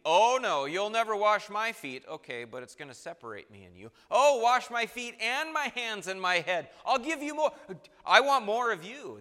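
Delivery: eager Peter. Retold or imitated. Acting Peter's reversal dialogue.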